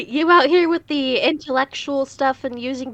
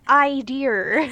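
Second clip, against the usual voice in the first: imitating British. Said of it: "keeps on saying".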